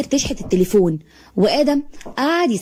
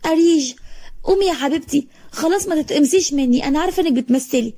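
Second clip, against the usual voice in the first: much higher, desperate wailing voice; wailing plea; 5 semitones higher than usual. Acted. Girl wailing at her dead parents to get up. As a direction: beg them to wake up, on the edge of hysteria.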